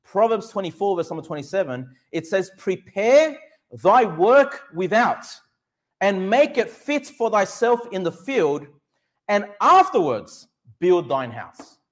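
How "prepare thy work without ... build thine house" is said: slow, emphatic Bible reading; scripture reading. Acted. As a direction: read the verse out slowly in weighty, separated phrases. Reads a Bible verse aloud.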